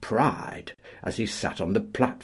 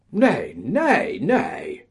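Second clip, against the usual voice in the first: much higher, loud protesting shout; 7 semitones higher, 7 dB louder, much slower than usual. Acted. A collier shouts down the paymaster's offer, high and loud. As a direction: bellow the refusal. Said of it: "shouted a voice".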